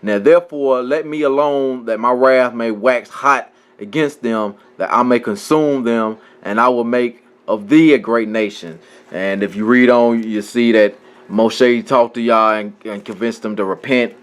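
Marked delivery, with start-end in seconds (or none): 0.0-8.8 measured reading aloud from scripture. Acted. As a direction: read the verse out in a steady recital.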